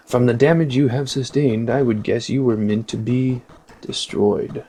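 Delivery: lightly voiced robot; a hint of stiff machine delivery; horrible robot voice. Robot overseer assesses the damaged drone, horrible robot voice. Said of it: "That's a very horrible robot voice".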